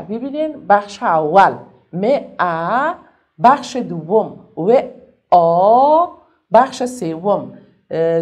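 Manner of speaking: each sound of مواظبت called out slowly and loud; sounding out syllables. Shown as a demonstration. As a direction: spell it out sound by sound, stretched.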